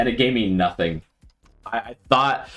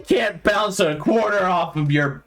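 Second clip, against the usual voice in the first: high, drawn-out mock scolding; nagging clean-freak duck; 8 semitones higher than usual. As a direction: play a fussy duck inspecting the housework, pitched way up. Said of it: "this duck comes into your home and he's like".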